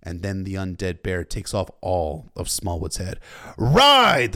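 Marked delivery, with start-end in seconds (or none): 3.6-4.3 very loud, high, drawn-out command; shout. A narrator's reading. Lord Commander wheeling to his riders, full shout. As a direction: shout the charge with full force. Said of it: "the Lord Commander shouted".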